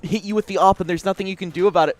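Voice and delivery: hyper aggro. Retold or imitated. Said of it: "uh, hyper aggro".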